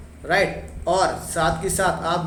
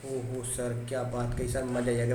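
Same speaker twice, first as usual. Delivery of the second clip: soft, low mock gushing student; mock student delight; 6 semitones lower, 7 dB quieter than usual. Teacher voicing students softly gushing. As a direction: play the thrilled student murmuring praise.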